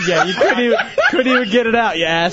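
amused scolding through laughter; giggly mock reproach; laughing accusation. Real, not acted. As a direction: tease him while cracking up. Cracking up at failed joke.

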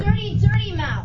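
loud stern scolding; harsh barking commands. Acted. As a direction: bark it like a strict mistress. Dominatrix scolding the girl.

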